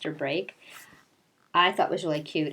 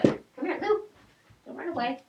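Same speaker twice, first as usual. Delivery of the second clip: higher coaxing call to a pet; calling the dog; 8 semitones higher than usual. Real, not acted. Owner calls her dog over, higher coaxing voice. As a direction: sweet-talk the dog back.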